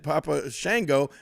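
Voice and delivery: Shango with a Southern short "a"; Memphis pronunciation. Shown as a demonstration. Host recalling the Memphis way, Shango as SHANG-go. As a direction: say Shango to rhyme with "tango". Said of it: "that's the way we did pronounce it down here in Memphis".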